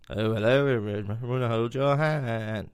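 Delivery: mild Liverpool greeting, very slow at the end; a light 1960s pop-band-style Liverpool voice; lightly voiced pop-band bit, Liverpool accent. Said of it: "the Beatles".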